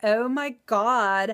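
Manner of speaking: over-the-top, exaggerated valley girl voice. Denying ever talking like this: valley girl voice. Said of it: "I'm not a valley girl. I don't talk like like".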